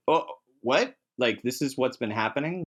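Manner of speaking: light hammed-up gasp of discovery; mock surprise. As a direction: play the dawning shock of a player who just got it. Player realising the twist late.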